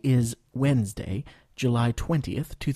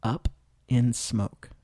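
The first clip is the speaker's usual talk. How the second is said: slow, spaced repeat; slower than usual. Shown as a demonstration. Teacher repeats the phrase with a pause. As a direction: pause after Up, then finish. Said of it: "écoutez et répétez".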